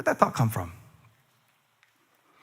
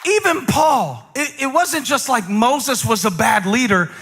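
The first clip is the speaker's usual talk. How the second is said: preaching; 6 semitones higher than usual. Real, not acted. Preaching at full force.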